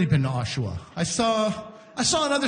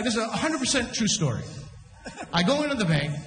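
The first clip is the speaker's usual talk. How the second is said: usual speaking voice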